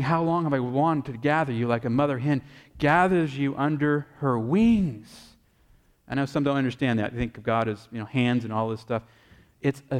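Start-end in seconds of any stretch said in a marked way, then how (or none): 0.0-5.4 heartfelt plea, slowing right down at the end; pleading. Retold or imitated. Jesus to people he longs to gather, pleading. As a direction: plead gently, drawing out the last words. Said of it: "Do you hear the pleading voice".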